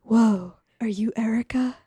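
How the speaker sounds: hushed, awed fan impression; Keanu voice. Sexy doctor meeting playwright Erica, mock Keanu voice. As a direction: lightly imitate a dazed, breathy admirer. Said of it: "He talks in his Keanu voice".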